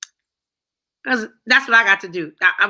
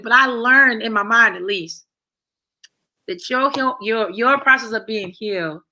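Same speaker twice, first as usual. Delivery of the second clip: deliberately slow. Real, not acted. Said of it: "I gotta say it slow".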